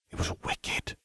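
excited whisper. A narrator's reading. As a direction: breathe it out in awe. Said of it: "Ron whispered".

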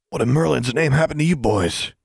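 put-on a teacher aghast at the battered boys; shocked exclamation. A narrator's reading. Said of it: "he exclaimed".

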